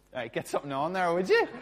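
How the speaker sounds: mock a bossy man ordering a woman; brisk order, leaping high and loud on the tag question; bossy fella. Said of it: "One of the fellas goes up".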